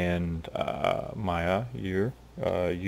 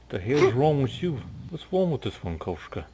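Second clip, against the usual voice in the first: lightly raised incredulous snap; wolf leader, baffled; 6 semitones higher than usual. Acted. Wolf leader asks Koshka about the strange one, baffled. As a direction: wave off the odd newcomer.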